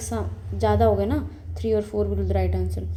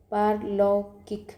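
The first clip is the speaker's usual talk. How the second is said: slow careful word; much slower than usual. Shown as a demonstration.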